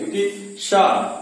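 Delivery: शा stretched slowly with the tongue at the palate; drawn-out sound. Shown as a demonstration. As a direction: hold शा long so they hear the palatal hiss. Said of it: "इसका उच्चारण करते समय तालु".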